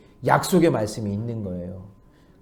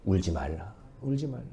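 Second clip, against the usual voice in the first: much softer and lower; gentle Jesus; 6 semitones lower, 10 dB quieter than usual. Retold or imitated. Jesus comforting the weeping widow, much softer. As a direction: hush them tenderly. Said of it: "예수님이 말씀하시는 거예요".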